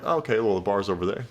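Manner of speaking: dry, matter-of-fact brush-off; deadpan tease. Shown as a demonstration. Guy teasing a girl who wants a drink, deadpan. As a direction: point her to the bar with a straight face. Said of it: "I'd be like this".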